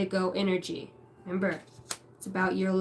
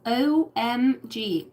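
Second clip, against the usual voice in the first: 1 mock valley girl; much slower than usual.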